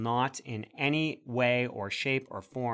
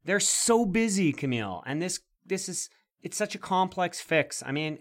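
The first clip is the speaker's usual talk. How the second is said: high-pitched sarcastic pleading; mock exasperation; 6 semitones higher than usual. Host chiding co-host for impatience with busy government, mock exasperated. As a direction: plead the government's case with hammed-up indignation.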